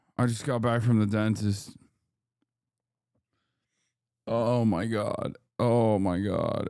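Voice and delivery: sounding exhausted and worn out. Back from the dentist and in pain, sounding exhausted. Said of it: "Do I sound exhausted? It's because I am".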